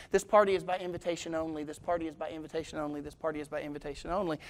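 repetitive announcement. Retold or imitated. Woman passing out invitations in front of her rival, mock repetitive announcing. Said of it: "saying over and over again".

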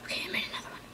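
excited little whisper while playing. Real, not acted. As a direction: hush it down, keep the thrill in. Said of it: "I'm sorry if I'm talking very quiet".

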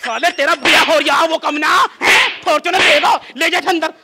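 loud, exasperated scolding; angry outburst. Acted. Father sends son inside over car demand, loud anger. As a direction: shout him out of the room.

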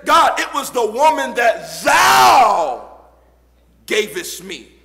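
voicing Adam. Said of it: "He said".

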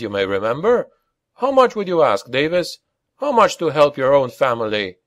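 trace of smugness. A narrator's reading. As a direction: needle him with a touch of smugness. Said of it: "with just a trace of smugness".

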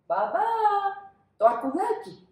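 high, loud whimpering call; crying call. Acted. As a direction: cry out for the lost teddy. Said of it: "φωνάζει ο Άλφονς". (κλαψιάρικο φώναγμα)

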